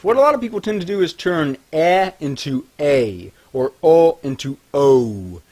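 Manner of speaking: usual speaking voice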